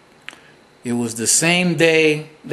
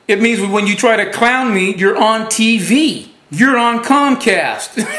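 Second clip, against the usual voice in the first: gloating taunt; 5 semitones higher than usual. Real, not acted. Taunting the host who hung up.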